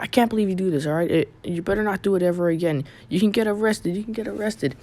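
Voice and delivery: high-pitched scolding without real volume; mock yelling. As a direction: imitate a woman nagging in a high voice. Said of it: "the woman still kept yelling".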